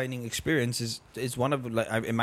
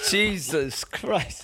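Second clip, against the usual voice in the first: very slow, stretched exclamation; drawn-out disbelief; 6 semitones higher, much slower than usual. Real, not acted. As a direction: drag it out in disbelief. Reaction to a joke.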